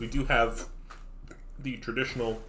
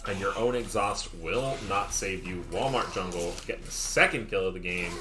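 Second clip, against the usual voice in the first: live play-by-play. Real, not acted. Caster calling a kill for viewers, play-by-play. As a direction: call the kill, leaning hard on key words.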